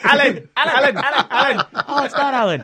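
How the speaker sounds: tiny high squeaking of the name; squeaky marmot voice. Pretend. Shrill meme voice joke.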